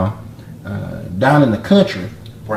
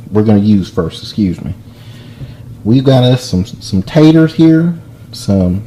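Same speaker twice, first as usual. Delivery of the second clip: louder put-on Southern drawl; hammed-up Southern accent, projecting louder; fake southern drawl; 3 dB louder than usual. TV cook listing ingredients in a fake Southern drawl. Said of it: "talk through the whole video, uh, with this kind of an accent".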